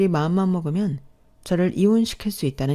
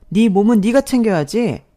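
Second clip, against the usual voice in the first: sharp, louder scolding; 2 semitones higher, 5 dB louder than usual. Acted. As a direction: bark the rebuke at her. Stepmother scolding the pregnant sister.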